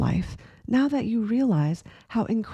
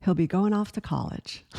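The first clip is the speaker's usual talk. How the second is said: sweet stranger's advice; 3 semitones higher than usual. Retold or imitated. The couple retells advice, voiced.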